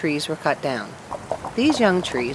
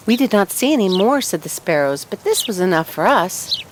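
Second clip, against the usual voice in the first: chattering sparrows; 2 semitones higher, 4 dB louder than usual. Acted. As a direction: gossip excitedly like little birds. Sparrows answer.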